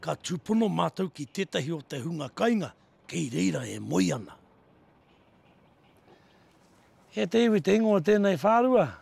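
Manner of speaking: documentary voice-over. Acted.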